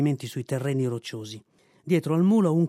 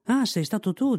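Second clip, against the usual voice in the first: a higher, scolding mule voice; lightly voiced mule catching the culprit; gruff mule; 7 semitones higher than usual. A narrator's reading. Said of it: "disse il mulo".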